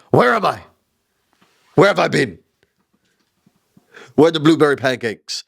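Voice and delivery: bewildered wanderer asking where he is; confused old man. Retold or imitated. Biden voiced lost in desert.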